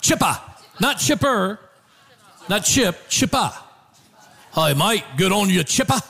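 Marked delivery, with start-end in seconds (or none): 0.0-0.4 put-on light Australian accent on mate; a hint of an Aussie mate greeting; mock Australian accent. Imitating Cole's cheerful greeting, light Australian accent. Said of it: "and he goes". 4.5-6.0 put-on light Australian accent on mate; a hint of an Aussie mate greeting; mock Australian accent. Imitating Cole's cheerful greeting, light Australian accent. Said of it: "and he goes".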